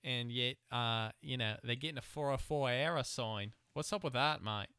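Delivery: a light put-on Australian accent, mate and all; hammed-up Aussie bloke telling the news, Australian accent. Podcast host jokingly reads the news to his co-host in a mock Australian accent. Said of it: "everyone knows I was Australian. My accent's good".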